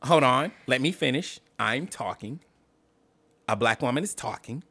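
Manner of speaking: mildly mocking debater holding the floor; imitating Kamala Harris. Mimicking the senator shutting down interruptions, imitating her. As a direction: insist on finishing, in short separate phrases. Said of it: "Didn't that feel like a poor impersonation of her".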